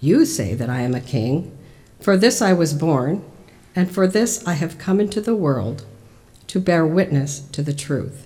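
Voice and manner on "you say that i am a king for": usual speaking voice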